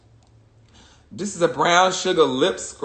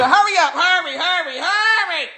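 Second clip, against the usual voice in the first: giggly rush; 11 semitones higher than usual. Real, not acted. Rushing herself through unboxing.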